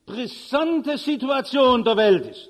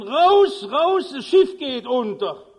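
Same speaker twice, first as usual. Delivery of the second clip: bellowing, much higher and louder; full-force yell; 4 semitones higher, 7 dB louder, slower than usual. Acted. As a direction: roar it at the top of your lungs. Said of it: "Brüllt aus Leibeskräften".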